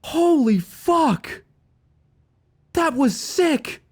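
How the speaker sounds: high, slow, stretched-out cry of delight; thrilled yell. Real, not acted. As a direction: whoop with real excitement. Stream event thrills him.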